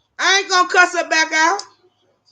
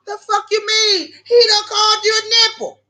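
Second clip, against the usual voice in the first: higher, mock disbelief; mock shocked; 7 semitones higher than usual. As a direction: toss it back in shocked disbelief. Retold exchange.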